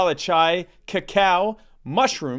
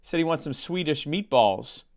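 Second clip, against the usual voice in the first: a hint of Norm's dry, meandering storyteller voice; Norm Macdonald impression. Telling the Polish sausage joke to his cohost in a mild Norm-style deadpan. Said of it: "cease and desist from the Norm Macdonald estate".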